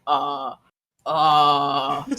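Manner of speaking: drawn-out mock hesitation noise; stalled thinking "uh". Switching between English and Mandarin, stalled hesitation. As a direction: imitate a brain stuck mid-switch. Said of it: "you can hear my cogs turning".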